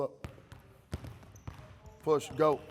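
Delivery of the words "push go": loud coach shout; barking gym coach. Real, not acted. Coach calling drill to players.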